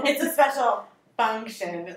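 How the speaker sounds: slow, mock snobby drawl of special function; snobby imitation. Teasing Sarah about her car, mock-snobby and slowed. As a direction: tease a friend by hamming up her elite tone. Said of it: "super elite, snobby".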